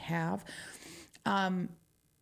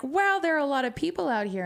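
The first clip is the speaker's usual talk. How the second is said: mock amazement; 7 semitones higher, 6 dB louder, faster than usual. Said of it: "I was like".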